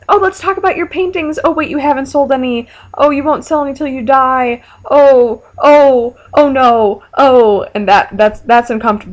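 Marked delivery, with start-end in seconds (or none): 0.1-4.6 high, sing-song fake sweetness, teasing a painter; sweetly cruel teasing, much higher pitch; mock chirpy taunt. Taunting Van Gogh in imagined meeting. 4.9-7.7 loud, hammed-up gasping ohs; theatrical mock alarm, louder; mock horrified oh no. Mock dismay at her own jab.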